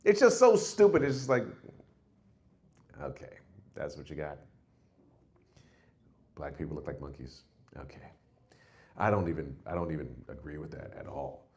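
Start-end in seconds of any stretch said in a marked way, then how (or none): 3.0-8.1 a low, quiet put-on voice for the racist; mock racist. Comic mocking a racist aloud. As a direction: mutter it like a smug bigot.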